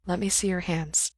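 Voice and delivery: soft, calming request; quiet, tender coaxing; gentle. A narrator's reading. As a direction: say it softly to calm him. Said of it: "Doctor Way said gently".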